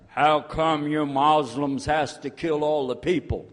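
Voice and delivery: slow, hammed-up accusing question; lightly put-on voice of an ignorant challenger; mock challenging questioner. Non-Muslim confronting a Muslim, mock accusing.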